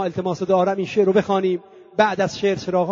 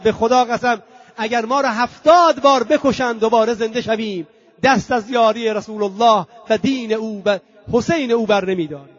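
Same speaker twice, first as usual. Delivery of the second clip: impassioned oath, moderately raised; retold defiant cry; 2 semitones higher, 4 dB louder than usual. Old companion pledging never to abandon, mildly shouted vow. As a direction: declare loyalty with a lifted, insistent voice. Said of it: "فریاد زد".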